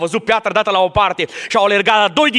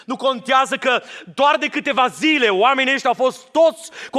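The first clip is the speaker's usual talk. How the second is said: impassioned address; 6 semitones higher than usual. Acted. Preacher addresses Mary directly.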